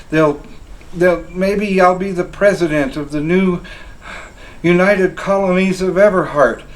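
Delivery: excited daydreaming. Acted. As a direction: get carried away imagining fame. Soldier daydreaming of glory.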